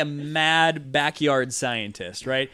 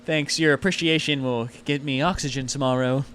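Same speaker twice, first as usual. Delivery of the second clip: sarcastic. Acted. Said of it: "You can tell the sarcasm in his voice".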